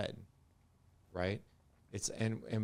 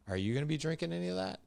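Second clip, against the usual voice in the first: put-on higher, quick curious kid's question; lightly voiced curious son; son's voice; 8 semitones higher, faster than usual. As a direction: play the ten-year-old asking innocently. Son voiced in retold story.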